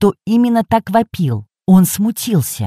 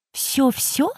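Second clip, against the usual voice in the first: put-on old lady voice; 6 semitones higher, 8 dB quieter than usual. A narrator's reading.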